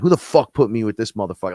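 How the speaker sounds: mock yell at the people around me; retold yell. Yelling at people on the ship, angry and fast. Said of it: "I yelled at him and a few people".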